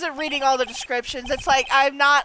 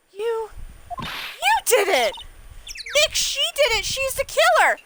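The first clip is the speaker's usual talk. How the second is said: excited cry; 9 semitones higher than usual. Acted. Game partner exclaims about culprit.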